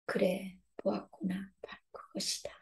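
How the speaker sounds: soft, hushed voice of God; gentle whisper. Acted. God answering the repentant heart, softly. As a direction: let the answer fall to a whisper.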